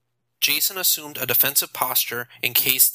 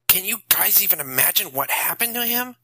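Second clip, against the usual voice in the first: Nathan taunting; 7 semitones higher than usual. A narrator's reading.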